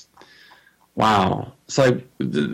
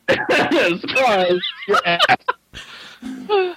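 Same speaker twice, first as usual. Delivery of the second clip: surprise party shout; 2 semitones higher, much slower than usual. Pretend. Laughing mock surprise yell.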